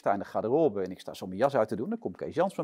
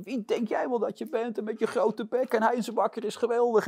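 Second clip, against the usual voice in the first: mock furious rant, much higher; retold angry yelling; 10 semitones higher than usual. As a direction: imitate the boss yelling at the intern. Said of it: "begon hij zo verschrikkelijk hard tegen mij te schreeuwen". (nagespeelde woedende uitval, veel hoger)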